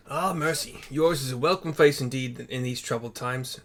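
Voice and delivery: aim for Texan and land on British; British accent slipping in. Acted. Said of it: "Oh, fuck, I'm making British".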